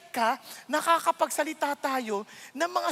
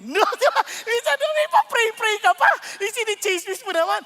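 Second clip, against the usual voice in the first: louder, higher scolding; emphatic rebuke; 8 semitones higher, 7 dB louder than usual. Real, not acted. Pastor rebuking gossip disguised as prayer, loud. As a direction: call out the hypocrisy.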